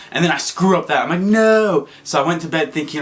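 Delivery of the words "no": frustrated no. Retold or imitated. Botches the last park.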